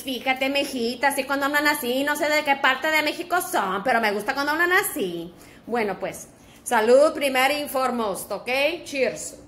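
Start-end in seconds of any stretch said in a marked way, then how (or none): 0.0-5.3 put-on regional Mexican accent. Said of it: "I like the ones that talk like this".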